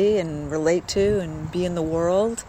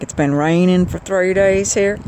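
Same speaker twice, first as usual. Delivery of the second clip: a touch of Southern twang; Southern accent. Retold or imitated. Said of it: "he had that accent".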